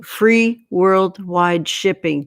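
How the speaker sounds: free said slowly, each word of free worldwide shipping drawn out and weighted; slow it down so it sinks in; slow, emphatic repeat. Shown as a demonstration. Host repeating the offer slowly so viewers catch it. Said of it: "Did you hear that?".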